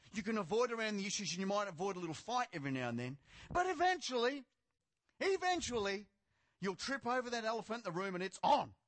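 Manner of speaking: projected warning from the pulpit; emphatic preaching. Real, not acted. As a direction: warn the congregation with rising force. Preaching at full force.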